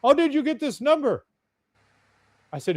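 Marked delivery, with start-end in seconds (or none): 0.0-1.3 angry, higher and louder demand; angry caller demanding answers; pissed off. Retold or imitated. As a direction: bark it like a furious stranger caught off guard. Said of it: "He's fucking pissed".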